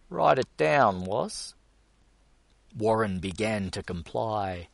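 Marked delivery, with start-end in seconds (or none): 0.1-1.5 loud, higher stern command; stern order. A narrator's reading. Gus sternly ordering Warren to write, loud command. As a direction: order him to note it. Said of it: "pointed sternly".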